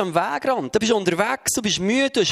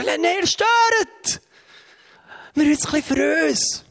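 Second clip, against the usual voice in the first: high, very slow dismissive no; mock refusal; 9 semitones higher than usual. Disciples turn away the crowd on the mountain, high mock refusal. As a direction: drag out a hammed-up refusal.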